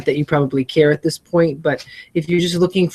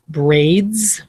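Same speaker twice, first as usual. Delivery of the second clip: whispered word; 2 semitones higher, 3 dB louder than usual. Shown as a demonstration. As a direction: whisper "Braids". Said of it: "Wow, braids".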